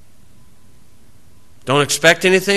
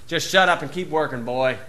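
softer, dismissive grumble; gruff father; 5 dB quieter than usual. Retold or imitated. Noah telling son Ham to keep working, gruff. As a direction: brush off the nagging son.

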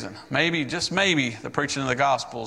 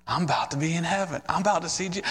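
excited; 4 semitones higher, faster than usual. Retold or imitated. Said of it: "I was getting excited".

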